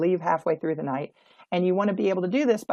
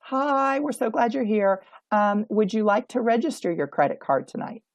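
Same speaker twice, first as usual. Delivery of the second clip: timid greeter; 4 semitones higher than usual. Shown as a demonstration. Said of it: "They do not say something like".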